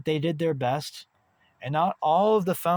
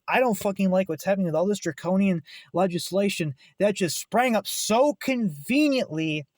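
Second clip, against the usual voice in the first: angry message; 3 semitones higher than usual. Pretend. Caller telling payment processors off, angry. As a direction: tell them off like you're fed up. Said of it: "Let these fuckers know".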